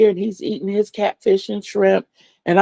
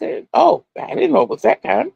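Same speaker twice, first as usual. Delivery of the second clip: startled; 4 semitones higher than usual. Retold or imitated. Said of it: "I'm like".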